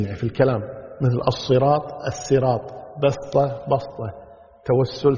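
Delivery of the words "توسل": توسل said with a plain light S sound; التوسل بالسين; tawassul with s. Shown as a demonstration. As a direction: say توسل with a thin S, not emphatic. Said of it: "يعني سين صاد".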